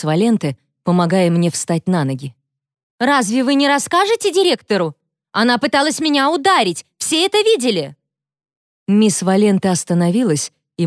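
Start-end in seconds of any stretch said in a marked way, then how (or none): 3.0-8.0 high outraged whining; the bully to the teacher, high and whiny; whiny protest. A narrator's reading. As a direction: demand justice, whining.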